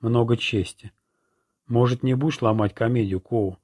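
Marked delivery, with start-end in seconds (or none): 1.7-3.6 contemptuous. Acted. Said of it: "презрительно бросил я".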